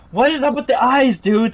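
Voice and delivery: loud, high-pitched outburst; freaked-out exclamation; startled disbelief. Real, not acted. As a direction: break off reading in loud alarm. Reacting to creatures' eyes.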